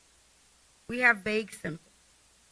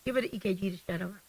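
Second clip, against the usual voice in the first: fed-up administrator; 6 dB quieter, faster than usual. Retold or imitated.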